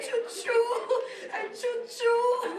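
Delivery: strangled mute voice. Acted.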